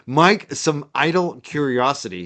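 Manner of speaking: slow, careful read-aloud. Real, not acted. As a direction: reread it slowly, getting every word out. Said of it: "Let me say it again".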